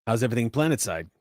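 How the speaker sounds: lightly voiced gravelly pilot; a hint of gravel in the voice; Devar. Gravelly wing pilot checking in over the comms, lightly gruff. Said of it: "this is the gravelly voice of Devar".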